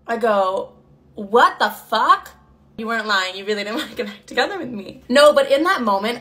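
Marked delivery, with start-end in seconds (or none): 1.1-2.3 slow, stretched-out disbelief; retold disbelief. Reacting to her ex's confession, slow disbelief. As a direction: draw each word out, stunned.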